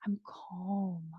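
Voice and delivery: slow, settled and calm; relaxed. Shown as a demonstration. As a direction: let the shoulders drop as you say it. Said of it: "You're like".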